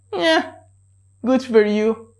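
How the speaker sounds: high mocking yeah then flat good for you; sarcastic. Shown as a demonstration. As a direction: dismiss them sarcastically. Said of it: "the sarcastic way".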